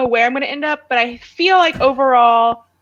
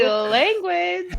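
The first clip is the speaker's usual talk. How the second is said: higher, softer mock reprimand; prim scolding quote; 6 semitones higher, 5 dB quieter than usual. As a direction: scold primly, putting it on. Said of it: "she was like".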